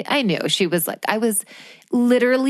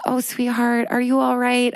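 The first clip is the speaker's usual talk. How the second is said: higher, gently concerned imitation; tender concern; 5 semitones higher than usual. Sweet woman behind her asks after her pain, tender concern. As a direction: play a sweet stranger checking on someone. Kind stranger checks on her.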